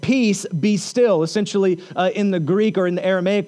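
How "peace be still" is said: slow, firm commanding voice; authoritative command. Retold or imitated. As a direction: quote it as a deliberate, weighty order. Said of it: "with a loud, authoritative voice said".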